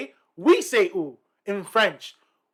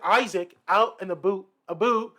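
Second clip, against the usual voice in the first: colleague's Canadian "boot" for "about"; mock-Canadian insistence on "a boot"; imitated Canadian accent. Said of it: "And he's like".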